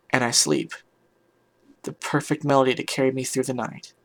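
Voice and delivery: measured dramatic story reading; story narration. A narrator's reading. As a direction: read it out as an earnest first-person tale. Reads a story aloud.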